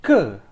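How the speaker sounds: "ke" said as a short "kə" with a schwa; spoken ke. Shown as a demonstration. Teacher showing students the colloquial ke. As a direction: say "ke" lightly as "kə", not "kah". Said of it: "We say".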